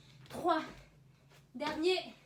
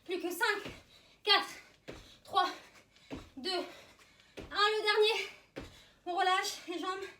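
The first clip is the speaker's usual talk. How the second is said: barking gym coach; 4 semitones higher, 4 dB louder than usual. Real, not acted. Coach calling final rep.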